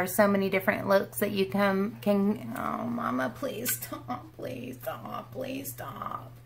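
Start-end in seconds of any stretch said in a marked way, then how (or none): 2.6-6.3 soft plea fading to a whisper; pleading with the dog, softer and softer. Real, not acted. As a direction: beg the dog quietly until it's a whisper.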